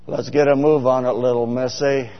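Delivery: a hint of a gruff western hero hurrying someone; John Wayne. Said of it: "it sounded just like John Wayne".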